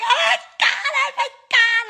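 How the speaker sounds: very high, loud tearful wail; hammed-up happy sobbing; mock crying. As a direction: imitate overwrought weeping at high pitch. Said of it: "like, crying".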